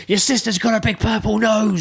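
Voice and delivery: high, wailing mock outburst; mock snapped insult. Drunk girlfriend snapping at boyfriend with an insult, high mock fury. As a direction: imitate someone lashing out in a high voice. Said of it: "she eventually snapped".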